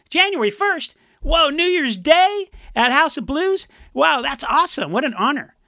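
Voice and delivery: excited. Retold or imitated. Imitating the singer thrilled about a New Year's gig, mock excited. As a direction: gush like a starstruck bandmate.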